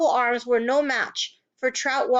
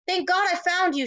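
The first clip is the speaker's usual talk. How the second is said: sighed; 7 semitones higher than usual. A narrator's reading. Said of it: "she sighed".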